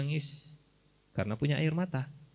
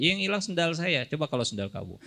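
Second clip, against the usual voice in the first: mock indignant reply; 5 semitones higher than usual. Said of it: "bakal gitu mungkin jawabannya".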